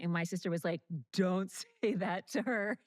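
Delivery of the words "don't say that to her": laughing protest. Retold or imitated. Retelling sister scolding mom, laughing through the quote. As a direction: imitate the sister's protest while cracking up.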